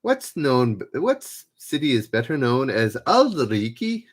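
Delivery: amateur attempt at an Edinburgh local's accent; hammed-up, unconvincing Edinburgh accent; lame Edinburgh accent. Shown as a demonstration. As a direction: have a clumsy go at Edinburgh Scots, rising at the end. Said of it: "this is my lame attempt to try it as a local".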